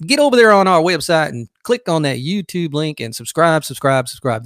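hammy, badly faked Southern accent; horrible Southern accent. Host voices Woody plugging the website, badly faked Southern accent. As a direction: play a dog with a put-on Southern accent. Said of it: "That is a horrible Southern accent".

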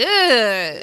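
imitated sitcom-wife groan of disgust; put-on "ugh" in a changed voice; Peg Bundy. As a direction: groan it like an exasperated TV housewife. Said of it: "she makes the Peg Bundy".

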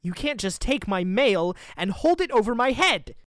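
loud angry complaint. Acted. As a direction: push back hard, loud. Heated argument over mail.

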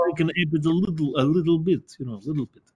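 light touch of mock Russian accent. Showing they can manage a little, light Russian accent. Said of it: "we can talk with a Russian accent".

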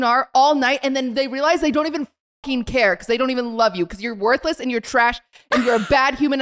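relentless run-on cursing, mildly heated; retold furious tirade. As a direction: pile up curses without stopping, as a retelling. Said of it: "I go crazy".

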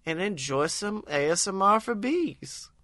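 bee voice. Acted. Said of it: "my soothing bee voice".

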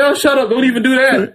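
high, laughing shut-down; laughing brush-off. Retold or imitated. Telling his wife off, high and laughing. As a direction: wave her off, laughing high. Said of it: "I was like".

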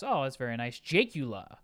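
ordinary talk, nothing marked

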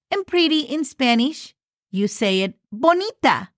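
ordinary talk

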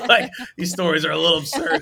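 laughing through the words; host laughing while wrapping up the stories. Real, not acted. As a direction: chuckle at how absurd it was.

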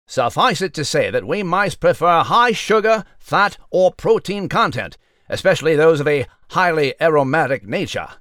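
crisp mock newscaster delivery; news read. Mouse Nigel reporting to listeners, in a pompous newsreader voice. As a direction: present it like a formal evening bulletin.

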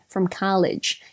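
drawn-out American "college"; American accent. Acted. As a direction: say "college" slowly with an open American "ah". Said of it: "continue reading in my best American accent".

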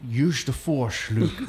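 slow, low Scottish-tinged rumble; Sean Connery as Obi-Wan. Pretend. Slow Connery voice, recasting Obi-Wan for friends. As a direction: lean into a slow Connery line. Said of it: "that's good Alec Guinness".

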